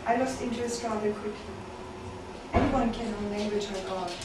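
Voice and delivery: measured, deliberate poem delivery with pauses between phrases; spoken-word recital in even, spaced lines; poetry reading. Acted. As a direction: read it as a poem to a listening room. Reads own poems to audience.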